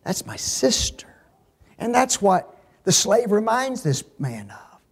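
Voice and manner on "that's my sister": hushed whisper. Real, not acted. Preacher to his flock, a soft whispered That's my sister.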